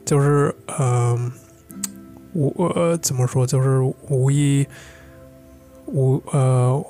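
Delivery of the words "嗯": ordinary talk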